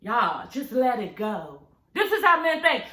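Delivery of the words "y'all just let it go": father's advice. Retold or imitated. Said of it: "exactly what my father would say".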